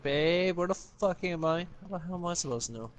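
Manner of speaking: lightly hammed-up freak-out when she gets lost; a hint of a frantic partner calling for help; mock panicked girlfriend. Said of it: "you start freaking out".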